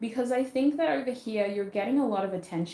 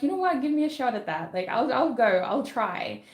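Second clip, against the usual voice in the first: eager opportunist voice; 4 semitones higher, 4 dB louder than usual. Pretend.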